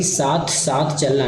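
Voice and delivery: साथ साथ चलना slowly, vowels kept oral; without nasal sound. Shown as a demonstration. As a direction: keep the nose out of साथ साथ चलना. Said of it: "नाक से आवाज नहीं निकालना है". (साथ साथ चलना, नाक से आवाज़ निकाले बिना)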